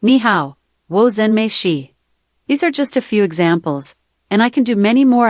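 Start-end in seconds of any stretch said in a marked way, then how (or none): 0.0-1.9 sample greeting with a Chinese accent. Shown as a demonstration. Assistant giving the host accent samples, Chinese accent. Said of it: "Chinese accent".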